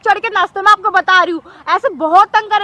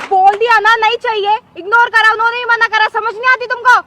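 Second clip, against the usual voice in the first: raised, irritated scolding of a street vendor; angry scolding; 2 semitones higher, 4 dB louder than usual. Acted. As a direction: tell him off for not leaving. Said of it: "चिल्ला क्यों रहे हो आप इतना?". (चिढ़कर ऊँची आवाज़ में डाँटना)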